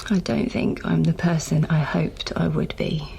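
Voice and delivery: frightened whisper, barely voiced; scared whisper. Georgina confiding her fear to her diary, whispering. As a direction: breathe it out in fear.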